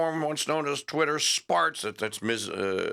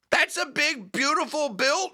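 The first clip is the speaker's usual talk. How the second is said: mocking scorn; 12 semitones higher than usual. Real, not acted. Mocking Trump's bill name.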